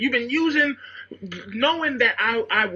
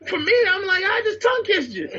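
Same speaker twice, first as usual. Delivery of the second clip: 1 laughing; 9 semitones higher than usual. Real, not acted. Laughing retelling kiss.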